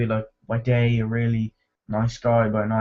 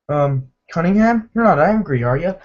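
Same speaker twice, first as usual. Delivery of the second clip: higher, wavering retold question; mock nervous pleading; 6 semitones higher, 4 dB louder than usual. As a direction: act out a bully suddenly uneasy, pitched up. Bully nervously faces the car.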